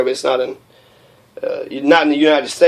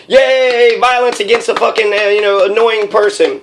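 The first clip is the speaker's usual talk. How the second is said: mock cheering; 6 semitones higher than usual. Clapping crowd cheering the tasing, sarcastic mock cheer. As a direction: parody the gleeful crowd.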